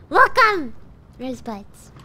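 blocked nose voice; stuffy nose. Real, not acted. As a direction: speak through a stuffy nose. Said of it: "I'm sounding really stuffy".

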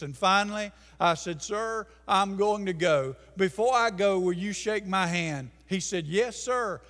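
ordinary delivery

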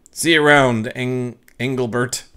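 a touch of theatrical ghostly farewell; drawn out spooky goodbye, lightly voiced; flair exit. Ghost teasing Engelbert on her way out, mild spooky flair. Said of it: "adding a bit of flair to your exit".

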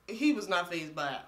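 talking while chewing; eating shrimp while talking; mouth full. Real, not acted. Seen 2: Bites held shrimp around 4.3–5.4s while talking; otherwise holding it.

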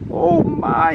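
high-pitched storybook exclamation; crying out. Acted. Character reacting to the dragon's roar of fire, crying out. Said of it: "he cried".

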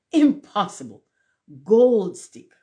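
high, loud exclamation; indignant. A narrator's reading. Rocket refusing to be called old stick, indignant. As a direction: burst out, correcting the insult. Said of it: "said the rocket indignantly".

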